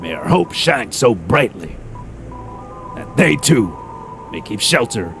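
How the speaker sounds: theatrical, measured recitation of an inscription; famous writer's words. Acted. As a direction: declaim it grandly, easing down at the close.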